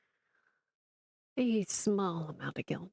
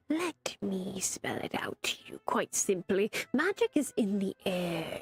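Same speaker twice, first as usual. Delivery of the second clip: unvoiced, hushed secret; mystic whisper. Barnabas whispering to his master about magic, hushed. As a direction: breathe it like a secret.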